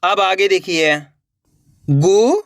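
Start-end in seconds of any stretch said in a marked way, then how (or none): 1.9-2.4 each syllable sounded separately, pauses between; letter by letter. Shown as a demonstration. Teacher sounds out a word for beginners, letter by letter. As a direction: break the word into its letters, slowly. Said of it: "एक ही अक्षर का उच्चारण".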